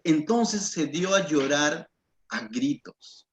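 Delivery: slow, weighty verse reading; scripture reading. Acted. Preacher reads the verse slowly to the church. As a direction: read the verse slowly, letting it land.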